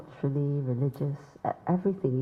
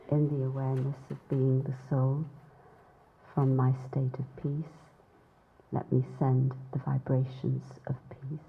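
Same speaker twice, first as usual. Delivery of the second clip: soft meditation lead-in, fading toward silence; guided meditation; 5 dB quieter than usual. Real, not acted. Speaker leading a gathering into silence for Morocco, soft meditative voice. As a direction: ease them gently into silent meditation.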